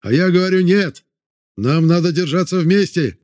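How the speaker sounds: drown out the crowd and hold the line; shouting over them. A narrator's reading. Vorontsov insisting the men stay together, firm shout. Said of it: "постарался перекричать говорящих".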